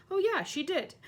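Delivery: hasty agreement. A narrator's reading. Ron agreeing hastily.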